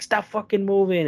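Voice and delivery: high-pitched shouted order; mock cop yell. Cop yelling at the man on the gravel, high-pitched. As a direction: yell it like a cop losing patience.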